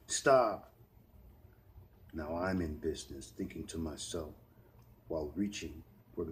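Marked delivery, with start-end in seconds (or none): 0.1-0.7 loud, high "stop"; pleading cry. Acted. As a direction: beg him to stop. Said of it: "China began to cry".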